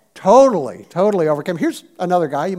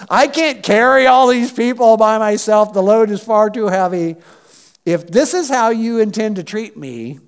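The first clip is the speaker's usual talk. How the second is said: raised, overburdened protest; exasperated complaint; 3 semitones higher, 5 dB louder than usual. Acted. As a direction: complain upward like an overloaded leader. Acts out Moses complaining to God.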